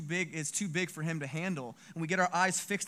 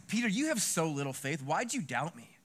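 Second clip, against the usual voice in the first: mild scolding at normal volume; reproachful rebuke. Acted. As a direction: play a understated stern reproach. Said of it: "I don't see this as".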